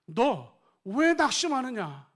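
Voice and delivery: slow, loud, drawn-out self-rebuke; rebuking his own soul. Acted. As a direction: speak each word slowly to your own heart. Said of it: "아담이 자기 자신에게 말하는 거예요".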